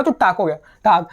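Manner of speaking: टाक with the final sound hardened to k; German final-k pronunciation. Shown as a demonstration. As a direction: say टाक, ending in a crisp k. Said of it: "half का type से ही pronounce". (टाक, आख़िरी ध्वनि क जैसी)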